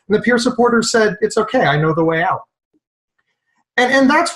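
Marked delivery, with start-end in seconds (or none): 1.2-2.4 calm, settled reply after mock panic; acted reassurance. Peer supporter to a panicking man, calm mock reassurance. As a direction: play the unruffled helper.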